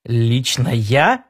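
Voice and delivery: slow, disbelieving query rising at the end; stunned, drawn-out question; incredulous question. A narrator's reading. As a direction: check slowly that it really means you. Incredulous at being asked to rule.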